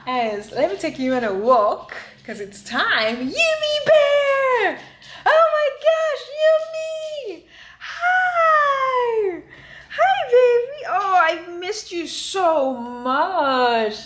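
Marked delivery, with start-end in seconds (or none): 3.2-10.8 high-pitched squeal of delight, drawn out; excited dog greeting. Real, not acted. Gleefully greeting her dog. 10.9-14.0 high, drawn-out cooing to a pet; gushing affection. Real, not acted. Gushing over her dog.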